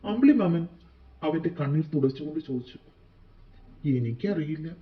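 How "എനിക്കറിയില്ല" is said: lightly acted tearful answer; sobbing, broken voice. A narrator's reading. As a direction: answer as if choked by sobs. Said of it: "തേങ്ങലിൽ അവന്റെ ശബ്ദം മുറിഞ്ഞു പോയിരുന്നു".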